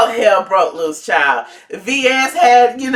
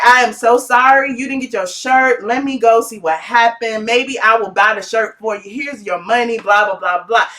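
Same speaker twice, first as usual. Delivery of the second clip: polite service voice; 2 semitones lower than usual. Pretend. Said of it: "I would be like".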